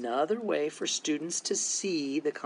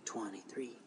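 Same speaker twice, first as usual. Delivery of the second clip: counting under breath; softly whispered number; 3 semitones lower, 11 dB quieter than usual. Shown as a demonstration. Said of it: "you might whisper count".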